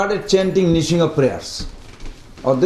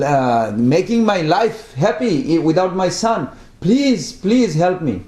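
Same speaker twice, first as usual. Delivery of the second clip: mild pleading grief. Retold or imitated. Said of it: "he started crying".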